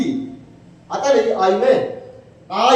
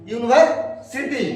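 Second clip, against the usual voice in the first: slow model word; slower than usual. Shown as a demonstration.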